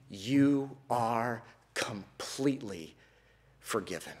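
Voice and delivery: slow, soft whisper of forgiveness; tender whisper. Acted. Father whispering forgiveness to his son, slow and soft. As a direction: breathe it gently like a father forgiving.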